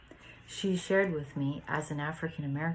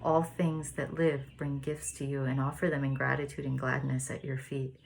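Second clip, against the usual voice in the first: reading aloud. Shown as a demonstration. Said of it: "paragraph four".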